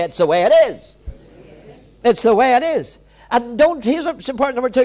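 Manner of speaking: forceful, emphatic sermon delivery; impassioned preaching. Real, not acted. Preacher telling congregation not to focus on what's left, impassioned preaching. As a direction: drive the point home from the pulpit. Preacher drives the point home.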